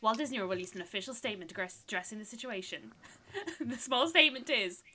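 lightly put-on American newsreader. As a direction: read it out like a news bulletin. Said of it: "That was my newsreader voice".

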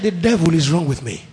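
low, soft, defeated answer; despondent reply. Retold or imitated. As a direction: sound like a beaten man. Sad man answers the preacher.

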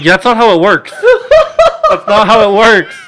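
hammed-up exasperated holler; exasperated shout. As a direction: yell it in disbelief. Exasperated retort to cousin.

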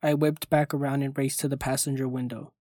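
usual speaking voice

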